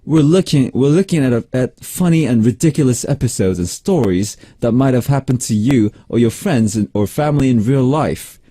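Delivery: attempted British accent reading; imitation British radio script read. Shown as a demonstration. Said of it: "I'm gonna read this in British accent".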